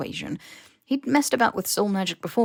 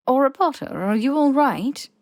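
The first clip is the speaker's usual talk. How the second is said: louder, higher worried question; concerned headmistress; 7 semitones higher, 5 dB louder than usual. A narrator's reading. McGonagall noticing Harry looks ill, louder worried query. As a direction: call him back sharply with concern. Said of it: "McGonagall said, frowning".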